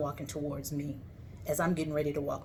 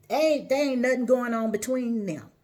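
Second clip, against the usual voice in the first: husband's defense; 5 semitones higher, 6 dB louder than usual. Retold or imitated. Husband voiced defending himself.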